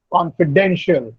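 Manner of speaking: "confidential" with the weight on "den"; stress on DEN. Shown as a demonstration. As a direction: stress the third syllable of "confidential", con-fi-DEN-shul. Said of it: "the stress is on den".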